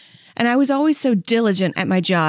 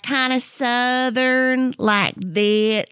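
Southern accent; 2 semitones higher, much slower than usual. Shown as a demonstration.

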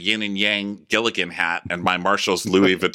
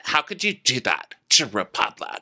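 imitating T J; 3 dB louder than usual. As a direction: wail it like a wounded loyal employee, far higher. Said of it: "T J is the one who's like".

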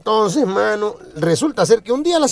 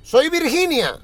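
higher, slow, asking daughter's voice; sweet daughter on the phone; 5 semitones higher, slower than usual. Acted. Virginia phones her mother asking permission, higher and slow. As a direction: ask mom politely, slowly, like a good girl. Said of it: "le dice".

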